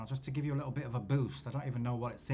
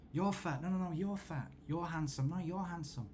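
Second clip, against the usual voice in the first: mock bickering; 6 semitones higher than usual. Mock exchange of insults, compliments.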